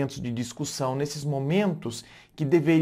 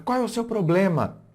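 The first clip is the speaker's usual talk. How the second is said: sharp accusing question, pitched up; aggressive tone; 6 semitones higher than usual. Shown as a demonstration. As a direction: snap it at the partner in a heated argument. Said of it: "Olha só, entonação de voz".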